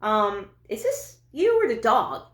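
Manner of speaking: high, slow put-on boyfriend voice; a puzzled boyfriend in bed, mock voice; imitating boyfriend. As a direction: ham up the big furry guy's puzzled question. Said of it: "he's like".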